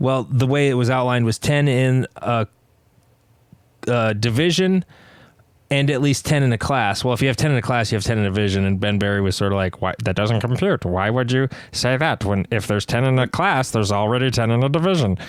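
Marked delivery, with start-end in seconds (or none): 9.8-15.2 mechanical, computer-like robot voice. Retelling Ben Berry's question while he listens, imitating Ben Berry as robot. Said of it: "make you sound like a robot".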